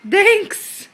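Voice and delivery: high, bright sing-song model word. Shown as a demonstration. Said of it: "Say thanks".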